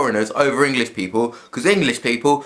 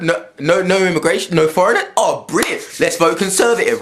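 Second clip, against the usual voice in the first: mock gleeful cheer; 5 semitones higher than usual. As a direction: cheer like a smug voter. Mocking gleeful racist voters.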